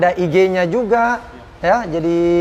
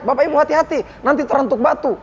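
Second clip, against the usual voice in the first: put-on higher, irritated warning to the old pilgrims; impatient caution in a higher voice; raised voice; 7 semitones higher than usual. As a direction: warn them sharply with the pitch pushed up. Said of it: "nada saya agak naik".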